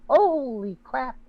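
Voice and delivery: slow, drawn-out amazement; stunned, lingering reenacted reaction; retold shock. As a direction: stretch it out in disbelief. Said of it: "I was like".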